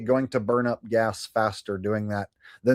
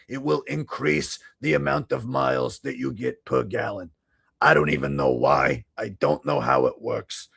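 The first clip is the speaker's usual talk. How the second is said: thick Boston accent, mock-sincere pitchman; Richie from Boston. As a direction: sell it like a Boston huckster. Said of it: "Richie from Boston impression".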